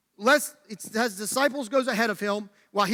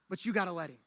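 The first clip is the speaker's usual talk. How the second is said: sudden soft, low appeal; earnest hush; 5 semitones lower, 9 dB quieter, faster than usual. Real, not acted. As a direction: drop down to a quiet, sincere plea. Sudden hush after sermon climax.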